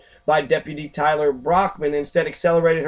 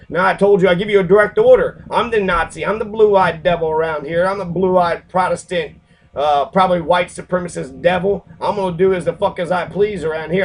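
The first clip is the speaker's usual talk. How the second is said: mock power-tripping cop; 2 semitones higher, 4 dB louder than usual. The deputy ordering the teen to stop, loud mocking bark. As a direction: ham up the arrogant deputy giving orders. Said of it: "He's like".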